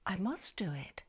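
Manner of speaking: breathless whisper to himself; whispered resolve. Acted. Ernest alone at night, whispering his plan. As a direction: whisper it like a secret vow.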